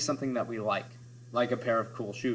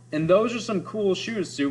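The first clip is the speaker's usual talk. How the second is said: a touch higher, admiring; impressed compliment; 6 semitones higher than usual. Shown as a demonstration. Teacher playing someone admiring Sue's shoes, lightly higher. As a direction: compliment the shoes with some flair. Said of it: "We have different vowels".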